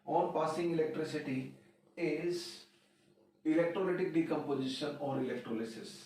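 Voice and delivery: words drawn out for note-taking; slow, deliberate dictation. Shown as a demonstration. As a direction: dictate it slowly so students can write. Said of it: "teacher dictates definition slowly".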